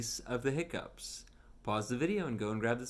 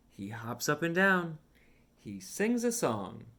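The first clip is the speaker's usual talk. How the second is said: lively storybook read with voiced characters; reading to children; 3 semitones higher, 5 dB louder, slower than usual. Reading a picture book aloud to a young child, animated storytime voice. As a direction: read it like storytime for a little one.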